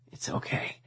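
very soft, voiceless comfort; whisper. A narrator's reading. Tristan soothes distraught Lizzie, whispering. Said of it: "Tristan whispered against my ear".

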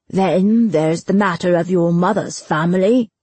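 leading insinuation with a rising end; needling. Acted. Bailiff raising Destin's mother's family, needling. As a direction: dangle the topic, lifting at the end.

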